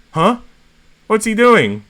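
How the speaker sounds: high, puzzled exclamation; confused, caught off guard; baffled. Acted. Bennett confused by Razor.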